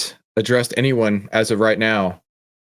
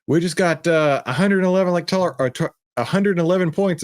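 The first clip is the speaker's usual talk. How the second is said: put-on higher-pitched calling up to the kids; retold call upstairs, pitched up without real volume; mild mock yell; 7 semitones higher than usual. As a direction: call out as if to another floor, lightly. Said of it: "I'd yell up to the kids".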